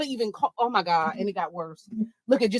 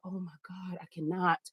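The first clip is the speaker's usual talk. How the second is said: muttered, much softer despair; under her breath; 4 semitones lower, 13 dB quieter than usual. Retold or imitated. Telling herself she can't eat with him, muttered very softly. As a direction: sink the voice, barely audible. Her inner dread at dinner.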